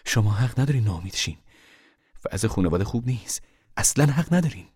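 a mother rebuking her family, heating up; angry mother. Acted. Mother scolds the family for giving up, angrily. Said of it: "مادر با لحنی خشمگین گفت".

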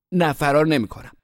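high, loud pleading; pleading denial. A narrator's reading. Boy held fast by his sister, pleading denial. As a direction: protest high and loud, desperate to be released.

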